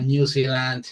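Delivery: "New Zealand" said slowly the English way, noo ZEE-lund; English pronunciation. Shown as a demonstration. Teacher shows the class how to say New Zealand. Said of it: "se dice".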